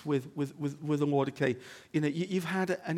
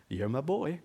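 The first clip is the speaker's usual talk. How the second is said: put-on American accent. The Father speaks to his son Jesus, American accent. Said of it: "Probably not in an American accent".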